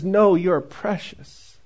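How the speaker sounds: slow, gentle reassurance; God answering a failure, tender. Pretend. God's reply voiced.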